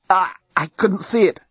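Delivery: gasped out in pain; gasping. A narrator's reading. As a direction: gasp the words, hurting. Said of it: "he gasped".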